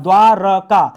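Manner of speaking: द्वारका repeated loudly and firmly; emphatic repeat. Shown as a demonstration. Teacher to students, loud emphatic repeat. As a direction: hammer home द्वारका. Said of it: "शब्द शुद्ध क्या दोस्तों?".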